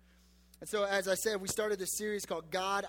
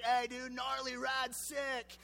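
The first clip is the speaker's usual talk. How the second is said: bro talk; 4 semitones higher, much slower than usual. Retold or imitated. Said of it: "I'd be like".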